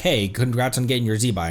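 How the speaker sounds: ordinary delivery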